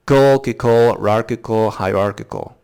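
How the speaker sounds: Kol, kikol, rarkical, hierarchical, each step adding a syllable to the front; syllables built up from the back. Shown as a demonstration. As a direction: build "hierarchical" backwards from "Kol". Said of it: "try saying the words backwards".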